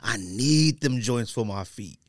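mock pleading. S0 imitating Rico begging for carpet dunks, slow whine. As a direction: drag it out like a friend begging.

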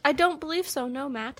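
lightly mock-British; put-on British accent. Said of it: "What the fuck was that?".

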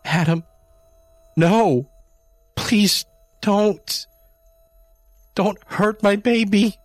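frantic mother begging him to spare her cat; shrieking. A narrator's reading. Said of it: "Jamie shrieked".

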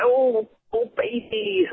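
high, breathy mock porn moan; porn moan imitation. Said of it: "like that".

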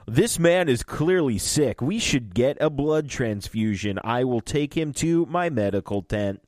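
lightly hammed-up doctor impression; Doctor Sturgis. Shady doctor claims the patient, in a lightly hammy impression. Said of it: "That is a better impression".

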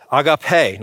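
"Agape" as ah-gah-PAY; "Agape" in three syllables, ending on a firm PAY; correct Greek pronunciation. Shown as a demonstration. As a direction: say "Agape" with open ah vowels and a clear final pay. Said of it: "That's not how you pronounce it".

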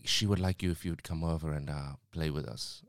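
low attempted South American accent. Guest inviting the worker over to join a couple, in an attempted South American accent. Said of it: "I'm still doing the accent".

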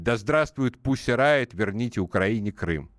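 lightly voiced robotic monotone. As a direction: recite it like a stiff talking robot. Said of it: "голосом робота говорит".

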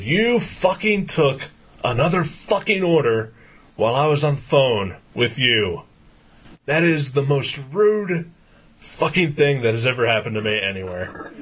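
mock tirade, punching the swear words without shouting; ripping into her. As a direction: re-enact an indignant rant at a rude restaurant. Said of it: "I just start ripping into her".

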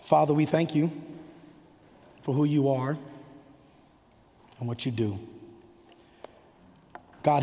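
measured closing prayer in short phrases; earnest pastoral prayer to the Father. Real, not acted. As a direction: pray unhurriedly, pausing between phrases.

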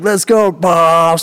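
high, drawn-out whoop; excited call to pile in; retold rallying cry. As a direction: act out a rowdy rallying call. Rallying friends into the truck.

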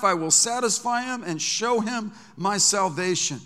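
preaching at full force. Acted. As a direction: proclaim the promise, stretching long.

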